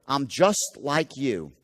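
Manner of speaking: slow, even "I'm just like you" with stress on "just"; a friendly, unhurried bond; likability tone. Shown as a demonstration. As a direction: lean on "just" and take your time. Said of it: "something called likability".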